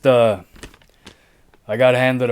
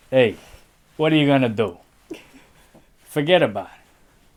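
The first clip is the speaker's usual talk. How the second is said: put-on New York accent; faster than usual. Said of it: "I wish I could do accents".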